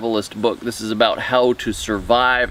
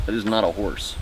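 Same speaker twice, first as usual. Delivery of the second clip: hushed reveal; 5 semitones lower, 6 dB quieter than usual. Acted. Conspiracy host reveals hidden meaning.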